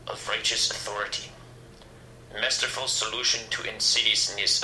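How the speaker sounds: lightly voiced megalomaniac proclamation; a hint of a pompous supervillain speech; grandiose tyrant. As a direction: declaim it in measured phrases, pausing for weight. Grandiose villain's proclamation of a gun seizure.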